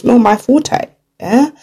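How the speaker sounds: put-on playful touch of an African accent, drawn out; little African voice, questioning lift at the end. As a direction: say it slowly in a light African voice. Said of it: "That's my little African voice there".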